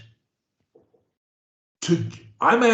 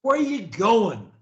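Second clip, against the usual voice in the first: with energy. Shown as a demonstration. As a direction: sell it with energy and conviction. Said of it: "the way I do, with energy".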